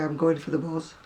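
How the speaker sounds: "buzz" for bus, ending in a voiced z; northern pronunciation of bus. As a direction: say "buzz" with a z at the end. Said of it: "make fun of me because I used to say".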